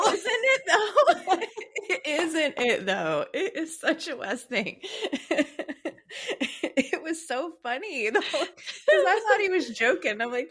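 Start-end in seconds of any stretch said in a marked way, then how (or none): 0.1-2.1 very high, slow, helpless laughing; laughing hard. Real, not acted. Agreeing in fits of laughter. 2.1-5.5 drawn-out agreement through giggles; real laughter settling as you speak; agree, still giggling; laughing. Real, not acted. 6.8-10.2 high, giggly retelling; laughing. Real, not acted.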